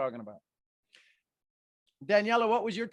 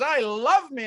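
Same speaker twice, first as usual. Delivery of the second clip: proud; 8 semitones higher, 10 dB louder, slower than usual. Retold or imitated. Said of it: "He goes".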